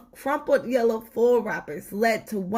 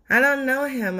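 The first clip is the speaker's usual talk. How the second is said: gritted smile; 5 semitones higher, 4 dB louder than usual. Acted. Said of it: "uttered Mother through a gritted smile".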